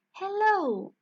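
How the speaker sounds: high, loud toad's greeting; calling out. Acted. Toad hailing the purple guards, calling out loudly. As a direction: sing out a big hello.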